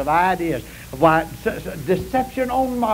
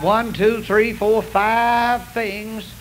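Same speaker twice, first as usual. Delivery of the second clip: slow counting; much slower than usual. Real, not acted. Counting slowly.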